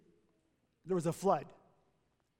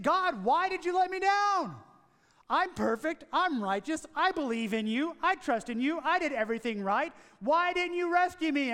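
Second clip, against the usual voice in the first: higher-pitched, mildly indignant complaint; mock-aggrieved plea, higher at the outbursts; angry protest; 5 semitones higher than usual. Man at the pearly gates complaining to God, angry protest. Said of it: "he was quite angry".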